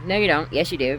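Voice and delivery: retold back-and-forth bickering; arguing. Replaying a dream argument with mother, bickering. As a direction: imitate both sides of a squabble. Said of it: "it was a weird argument in my dream".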